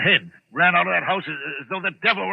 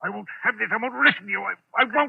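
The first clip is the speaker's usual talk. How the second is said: panicked refusal; 6 semitones higher than usual. Acted.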